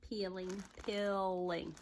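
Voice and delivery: "Peeling, peeling" drawn out in a Southern accent. Shown as a demonstration. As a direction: say "Peeling" with a lazy Southern drawl. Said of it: "That's my southern accent".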